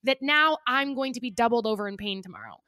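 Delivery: mildly worked-up complaint; retold frustration. Diner retelling her complaint to staff, frustrated. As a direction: replay an exasperated plea to staff. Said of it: "I also was so frustrated".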